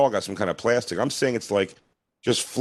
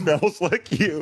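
dreamy mock swoon; 7 semitones higher, much slower than usual.

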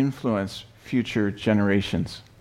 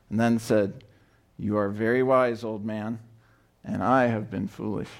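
story reading; 2 semitones higher than usual. A narrator's reading. Pastor reads children's story aloud.

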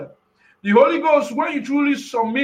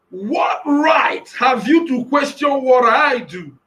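slow, shouted rebuke; voicing Jehovah. Preacher quoting Jehovah to the doubters. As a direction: lay down each word slowly. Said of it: "He says".

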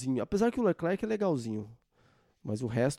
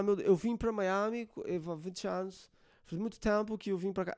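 mock American accent in Portuguese; 4 semitones higher than usual. Mocking a Brazilian painter who talks with an American accent. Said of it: "ele fala com sotaque de americano".

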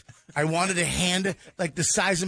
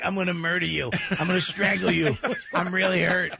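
laughing threat. Retold or imitated. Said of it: "I'm like".

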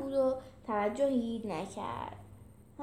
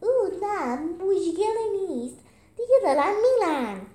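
higher, louder put-on Gaulish accent; 7 semitones higher, 8 dB louder than usual. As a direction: brush them off in a thick Gaulish accent. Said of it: "با اون لهجهٔ گولی آلیش".

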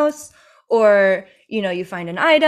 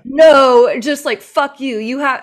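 mock hostile retort; 2 semitones higher, 9 dB louder than usual. Game voiced as hostile.

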